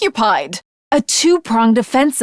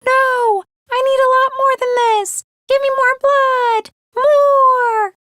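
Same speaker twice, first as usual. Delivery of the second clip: higher, hungry craving for more blood; bloodthirsty sword; 11 semitones higher than usual. Acted. Sword spirit demanding more blood from its wielder, high and greedy. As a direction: beg greedily for blood, pitched up.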